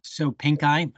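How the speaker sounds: "Soap Pink Eye" echoed with a rise on EYE; "Pink Eye" repeated, ending in a questioning rise; repeating the pronunciation. Shown as a demonstration. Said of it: "I would say that's Soap Pink Eye".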